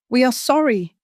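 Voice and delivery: theatrical wail. Acted. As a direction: put on a show of crying. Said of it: "she wailed".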